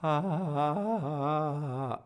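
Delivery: squeezed ah. Shown as a demonstration. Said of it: "maybe this happened".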